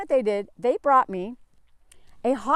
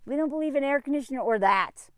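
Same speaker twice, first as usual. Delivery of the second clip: lazy dismissal. Retold or imitated. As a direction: wave it away half-whispering. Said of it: "they're like".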